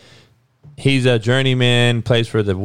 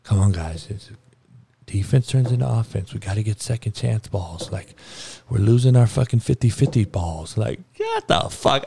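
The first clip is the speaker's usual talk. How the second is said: mock calm coach; 3 dB quieter than usual. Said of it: "calm voice".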